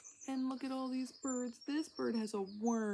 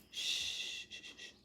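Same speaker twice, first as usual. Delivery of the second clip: hush. Real, not acted. Hushing near a caterpillar.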